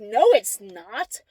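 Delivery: imitating a cocksure denial; retold stubborn contradiction; stubbornly convinced. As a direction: insist as if utterly sure. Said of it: "he was so convinced".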